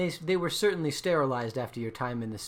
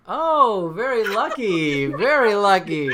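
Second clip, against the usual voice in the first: higher, booming "lucky" call; loud exclamation; 8 semitones higher, 12 dB louder, slower than usual. Real, not acted. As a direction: crow loudly over a lucky break. Game master reacts to a lucky save.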